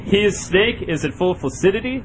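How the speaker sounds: sports announcer. Acted. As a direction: commentate it like a broadcaster. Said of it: "You're a shit announcer".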